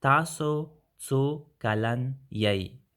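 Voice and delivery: slow, each syllable clear; slow careful demo. Shown as a demonstration. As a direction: spell out "Taso tsu kalan yei" slowly. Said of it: "Or we can say".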